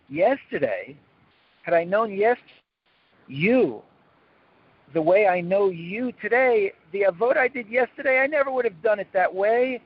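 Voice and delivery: a hint of a wise rebbe recalling; mild mock sage; tzaddik voiced. Tzaddik's words voiced in first person.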